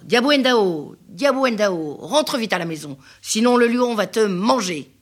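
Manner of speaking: appel plus fort qui porte; appel du papa. Acted. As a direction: appelle ta fille depuis la porte. (le papa appelle sa fille, voix forte)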